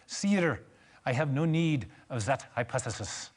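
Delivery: mock French accent, puffed up; lightly put-on French accent. Laplace puffing himself up to Napoleon, French accent. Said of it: "That was my French accent".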